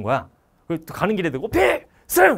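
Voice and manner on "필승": high, booming salute; shouted military salute. Retold or imitated. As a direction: hurl the salute at a departing senior. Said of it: "아, 조용히 하라고". (목청껏 외치는 경례)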